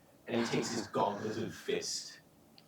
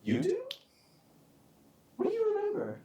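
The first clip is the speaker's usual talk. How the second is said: bullying interrogator; 10 semitones higher than usual. Acted. Villain interrogates silent bar crowd.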